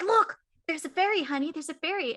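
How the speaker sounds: high, loud delighted dad pointing out a fairy; dad thrilled to show his girl a fairy; excited dad. Retold or imitated. Dad to daughter at ice cream, high excited call. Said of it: "He's like".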